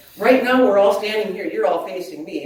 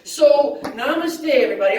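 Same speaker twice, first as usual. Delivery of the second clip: laughing namaste; 5 semitones higher than usual. Shown as a demonstration. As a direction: greet them with a laugh instead of a bow. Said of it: "We're gonna laugh".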